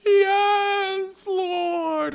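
high, loud, crying-out preacher voice; mock preacher. Worship leader proclaiming God's presence, high, loud. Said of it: "and there's this pre".

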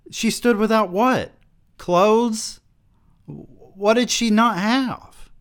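high, incredulous question; squeaky exaggerated confusion; mock confusion. Real, not acted. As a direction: ham up puzzled disbelief. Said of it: "mocking the sentence".

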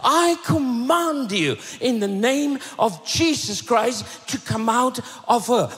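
preacher acting out a stern exorcism; angry command. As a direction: command it with heated authority. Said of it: "he got angry and he turned and said".

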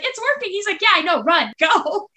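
high, urgent mock shouting; excited retold cries. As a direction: act out a high-pitched, hurried escape with a laugh. Acting out fleeing hobbits.

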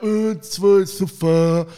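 loud call across a beer tent; waiter shouting. Retold or imitated. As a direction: bellow the order over the noise. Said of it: "ruft einer".

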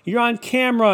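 high, loud heckling call; imitated yell. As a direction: yell it like a ranting passer-by. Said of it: "yells and he goes".

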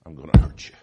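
sudden loud defiant declaration; defiant outburst. Pretend. Sinner defying the Holy Spirit, loud outburst. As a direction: blurt it out in defiance.

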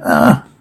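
short, contained "ah"; brief mock cry of effort; acted battle cry. Reader voices fighters as weapons clang, short mock cry.

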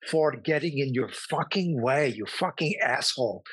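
lightly put-on fake Eastern European accent, apologetic; meek, broken English in a fake Eastern European accent that turns rude at the end; helpless Eastern European accent. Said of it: "it's the accent of helplessness".

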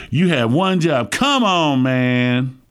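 drawn-out "come on, man", falling away; exasperated catchphrase, stretching the last word; TV show catchphrase. Retold or imitated. Preacher borrows a football show's catchphrase, drawn-out mock exasperation. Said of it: "They got this thing on television".

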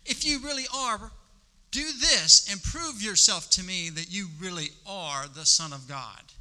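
high, mocking "if you really are", then a demanding push; sneering enemy. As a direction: dare him to prove himself. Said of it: "The enemy said".

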